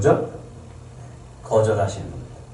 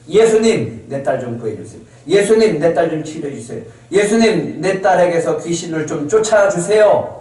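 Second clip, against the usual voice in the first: imitated persistent calling; 3 semitones higher than usual. Mother begging Jesus to heal her daughter, imitated insistent calling. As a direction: act out a mother calling again and again for help. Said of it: "소리 지르는 거예요".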